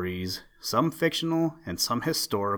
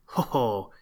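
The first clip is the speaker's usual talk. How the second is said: duck laughing. A narrator's reading. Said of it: "laughed the duck".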